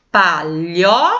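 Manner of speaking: "palhoça" slowly split into syllables with LHO strongest; slow "palhoça", leaning hard on the lho; stress on LHO. Shown as a demonstration. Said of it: "Qual que eu falei mais forte".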